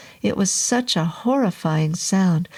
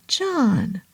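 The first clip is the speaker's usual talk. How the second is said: slurred voice; 4 semitones higher than usual. Acted. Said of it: "in a slurry voice".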